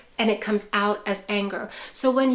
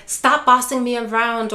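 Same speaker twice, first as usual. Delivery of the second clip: a raised, snapping protest; angry outburst; 5 dB louder than usual. Retold or imitated. Parent lashes out at caregiver, loud angry protest. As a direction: push the helper away with the voice. Loved one lashing out, quoted.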